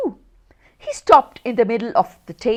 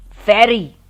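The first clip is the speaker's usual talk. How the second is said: drowsy; 8 dB louder than usual. A narrator's reading. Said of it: "said the snowman drowsily".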